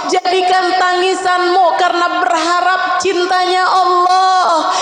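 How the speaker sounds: high, impassioned sermon, half shouting; fiery preaching. Acted. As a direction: drive the message home with rising passion. Preacher rises to full force.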